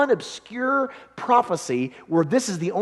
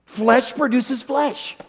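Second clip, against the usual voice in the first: slow repeat; 5 semitones higher, much slower than usual. Shown as a demonstration. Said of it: "look at verse six".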